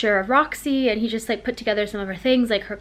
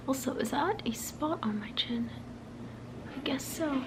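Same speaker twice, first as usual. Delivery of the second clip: much softer whispered aside; 4 semitones higher, 11 dB quieter than usual. Real, not acted. To herself about a spot on her chin, whispered aside. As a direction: whisper to yourself on noticing a flaw.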